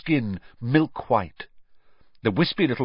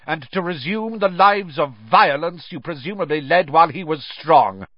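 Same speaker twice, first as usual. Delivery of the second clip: raised, high accusing voice; bellowing; 9 semitones higher, 3 dB louder than usual. A narrator's reading. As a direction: hurl the charges across the courtroom. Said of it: "bellowed Mister Crouch".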